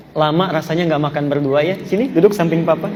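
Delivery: gently affectionate husband, understated; sweet invitation. Acted. Husband invites wife to eat together, sweetly. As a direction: invite her sweetly to sit beside you. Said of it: "ucapan yang sangat manis".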